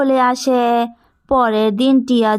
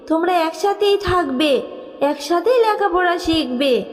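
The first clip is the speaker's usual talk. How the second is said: a loving mother's softer voice, reunited; tender fairy mother; 3 semitones higher, 3 dB quieter than usual. Acted. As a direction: call your lost child home. Fairy mother adopts Tia.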